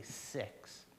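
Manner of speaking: a soft unvoiced exhale on six; breathing out quietly. Shown as a demonstration. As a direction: let the count ride the breath out, very quietly. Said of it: "let it out very quietly".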